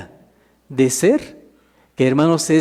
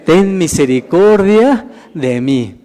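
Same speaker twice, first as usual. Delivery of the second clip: slow, louder plea, drawn out; measured, raised-voice plea; pleading cry; 5 dB louder, slower than usual. Acted. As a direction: call out slowly for mercy, half acted. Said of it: "comenzó a dar voces y decir".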